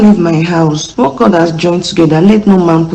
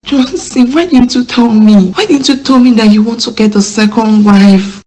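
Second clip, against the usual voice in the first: upset accusation; 2 semitones higher than usual. Acted. Wife confronts husband over second wife.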